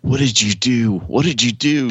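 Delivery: lightly voiced frantic mother; mom's panic. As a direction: mimic a panicked mother pleading. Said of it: "She's like".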